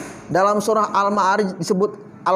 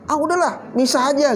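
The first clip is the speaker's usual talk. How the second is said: higher, mildly exasperated dismissal; fed-up quote; 4 semitones higher than usual. Acted. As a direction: act out giving up on someone. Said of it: "gitu ya".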